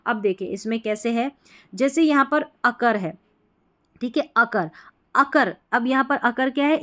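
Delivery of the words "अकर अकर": अकर with the weight on its last syllable कर; stress on final syllable. Shown as a demonstration. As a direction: press on the कर in अकर. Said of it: "अकर में जोर दे रहे हैं".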